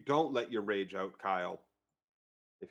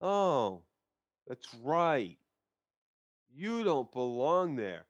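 slow solemn Arya; much slower than usual. Retold or imitated. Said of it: "She says".

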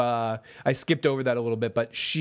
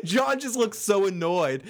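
ordinary talk, nothing marked

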